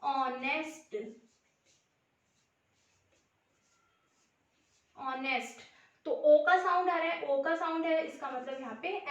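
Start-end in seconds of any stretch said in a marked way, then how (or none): 0.0-5.6 ऑनेस्ट धीरे, साफ़, एच बिना; slow careful model word. Shown as a demonstration. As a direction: stretch out ऑनेस्ट slowly, vowel first. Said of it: "इसको कैसे read करेंगे". (ऑनेस्ट को धीरे-धीरे बोलकर दिखाना)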